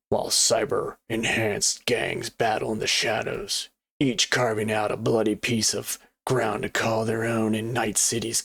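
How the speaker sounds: dramatic box-blurb narration, measured pauses; put-on cyberpunk narrator voice; cool cyberpunk voice. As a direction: read it like a cyberpunk trailer narrator. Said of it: "was that not a cool, like, cyberpunk, uh, voice".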